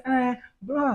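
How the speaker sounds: high-pitched mimicked girl's voice; slim girl. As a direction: put on a girl's high voice to get attention. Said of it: "She can't say".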